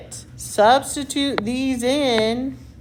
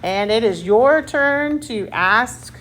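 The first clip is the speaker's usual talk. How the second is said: game show host. Real, not acted. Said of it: "Do I sound like a game show host".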